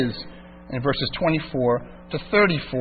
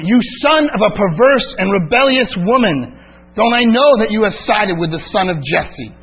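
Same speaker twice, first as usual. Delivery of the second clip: Saul's curse read with a touch of heat, a little louder; mild angry reading; 4 semitones higher, 4 dB louder than usual. Retold or imitated. Saul flaring up at his son Jonathan, mildly angry read. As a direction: read the king's insult with restrained anger. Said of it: "Saul's anger flared up at Jonathan and said".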